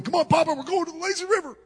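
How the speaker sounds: put-on high, eager kid's voice; excited five-year-old. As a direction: voice an excited child, pitched high and bright. Excited grandson calling Papa.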